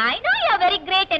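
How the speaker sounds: drawn-out, overly polite English; very slow sugary apology; slow mock apology. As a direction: stretch it out like a fake apology.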